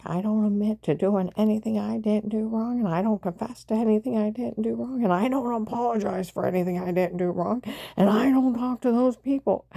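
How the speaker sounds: imitating mom's rising indignation; indignant retort. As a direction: hammer each "I don't" harder. Mother's indignant retort, retold.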